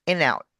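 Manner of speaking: "in out" said as "i-nout"; linked words. Shown as a demonstration. Coach shows linking, "in out" as one word. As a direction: carry the N of IN onto OUT. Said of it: "Out becomes nout".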